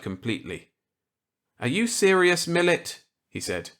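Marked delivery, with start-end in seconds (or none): 1.6-3.0 higher, louder character voice; eager reply to an old colleague; Walker's voice. Acted. Walker accepting Millet's gambit eagerly.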